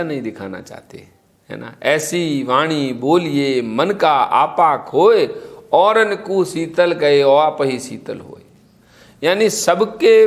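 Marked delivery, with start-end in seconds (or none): 1.8-8.4 slow, measured recital of ऐसी वाणी बोलिए; couplet recitation. Acted. Preacher recites Kabir's couplet on gentle speech, slow. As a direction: savour each line of the doha.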